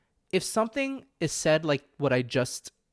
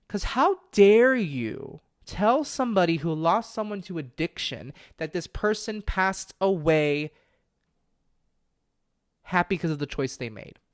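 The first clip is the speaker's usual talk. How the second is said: angry and tearful; 3 semitones higher than usual. Real, not acted. Podcaster tearing up in anger at the medium. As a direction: hold back tears while scolding. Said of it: "because I'm so angry about it".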